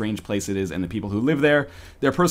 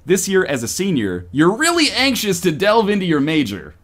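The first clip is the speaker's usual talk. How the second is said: lively storybook narrator; upbeat scene setting; game narration; 4 semitones higher than usual. Acted. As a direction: read it out with eager bounce.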